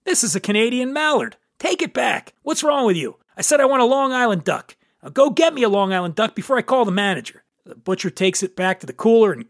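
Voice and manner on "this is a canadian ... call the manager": raised pitch, mock exasperated scolding; huffy shopper losing patience; irritated customer. Lady scolding the butcher over the wrong duck, mock exasperated.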